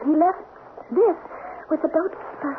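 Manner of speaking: breathless after running; broken up by short breaths. Real, not acted. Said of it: "Oh, I'm so out of breath".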